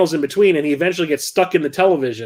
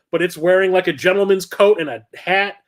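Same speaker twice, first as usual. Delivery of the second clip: ordinary delivery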